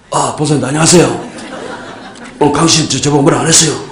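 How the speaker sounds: imitating the monk's voice. Monk teasing the handsome temple monk's voice, laughing. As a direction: lightly mimic his unimpressive voice. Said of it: "목소리는 정말 아니에요".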